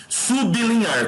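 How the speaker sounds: "Sublinhar" very slow and high, split sub-li-nhar; syllable by syllable. Shown as a demonstration. Teacher checks syllable division, "Sublinhar" slow and high in pieces. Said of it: "correta organização das sílabas".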